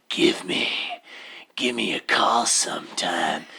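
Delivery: whispered. Acted. Speaking song lyrics in a hush.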